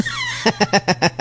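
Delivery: mock laugh-shout. Laugh within mock rant.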